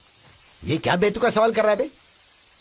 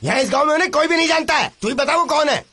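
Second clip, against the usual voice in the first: higher-pitched, mildly heated denial; indignant protest; 4 semitones higher than usual. Acted. Man accused of bringing strangers to the village, indignant protest.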